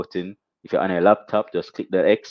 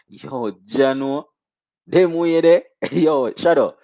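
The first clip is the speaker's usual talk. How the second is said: hype shout; 5 semitones higher, 6 dB louder, slower than usual. Real, not acted. Hype reaction to donation.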